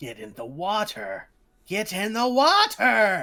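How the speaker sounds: grating, shrill, loud nails-on-chalkboard voice. Describing the voice you hear in your head, doing it as a grating voice. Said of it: "it's almost nails on a chalkboard bad in your head".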